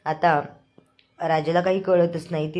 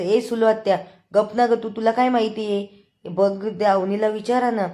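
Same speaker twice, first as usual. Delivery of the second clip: higher, louder shut-up; annoyed retort; 4 semitones higher, 4 dB louder than usual. Retold or imitated. Raja snaps at meddling aunt. (चिडून गप्प बसायला सांगणे)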